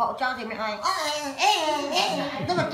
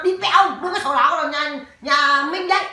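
retold scolding; 3 semitones higher, 4 dB louder than usual. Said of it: "lại chửi bố nó".

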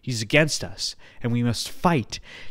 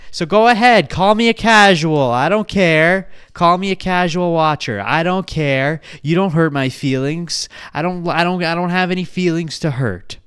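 loud, high defiant rant; defiant shouting rant; 5 semitones higher, 7 dB louder than usual. Real, not acted. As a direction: yell it at the haters, daring them.

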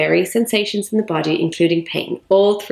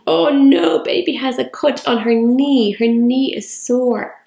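pretend play concern; 5 semitones higher, slower than usual. Shown as a demonstration. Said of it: "Lots of other concepts as well".

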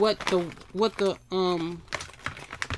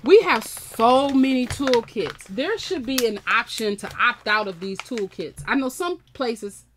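rant; 3 semitones higher, 4 dB louder than usual. Real, not acted. Ranting about unwanted toolkits.

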